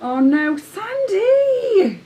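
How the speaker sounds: loud, high alarmed cry; alarmed shout. Real, not acted. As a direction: call out in alarm. Colleague hurt herself.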